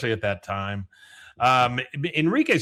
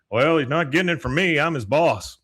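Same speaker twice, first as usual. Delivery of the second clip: a hint of Hank, a bit louder; mild Hank impression; 3 semitones higher, 4 dB louder than usual. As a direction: lightly do Hank, the gruff neighbor. That's Hank.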